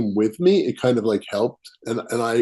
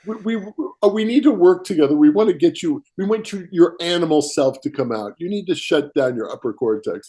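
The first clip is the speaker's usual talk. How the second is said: spirit voice; 5 semitones higher than usual. Retold or imitated. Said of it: "But when did you".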